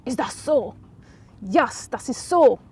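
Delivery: a hint of a slow smug villain; lightly voiced, drawn-out smug reply. Catherine taunting Sophie outside the office, lightly smug. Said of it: "That was a bit jinglish there".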